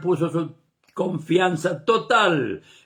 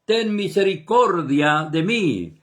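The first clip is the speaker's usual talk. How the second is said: crying out louder. Retold or imitated. Blind beggar calling louder over the crowd, mild raised plea. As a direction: cry out the name, then ease off. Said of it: "clamaba mucho más".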